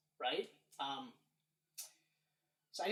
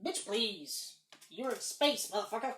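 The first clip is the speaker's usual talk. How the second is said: mock Nick Fury. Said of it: "Nick Fury would say things like".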